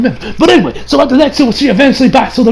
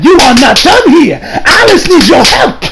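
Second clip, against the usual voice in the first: 1 urgent rallying call; 5 semitones higher, slower than usual. Retold or imitated. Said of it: "Yujo is like".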